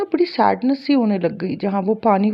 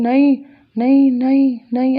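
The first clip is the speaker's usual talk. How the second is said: louder, mildly acted cry of refusal; retold screaming; 4 dB louder than usual. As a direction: re-enact repeated cries of no, half-shouted. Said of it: "और मैं चिल्ला रही हूँ". (हल्के से चीखने की नकल)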